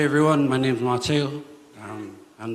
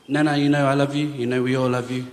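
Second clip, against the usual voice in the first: holding back tears; 2 semitones higher, 7 dB louder than usual. Real, not acted. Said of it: "I'm trying not to cry".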